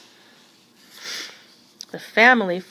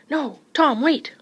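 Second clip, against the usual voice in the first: higher, louder urgent warning, not truly whispered; 7 semitones higher, 5 dB louder, slower than usual. A narrator's reading. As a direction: call out in alarm. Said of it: "whispered Mister Little".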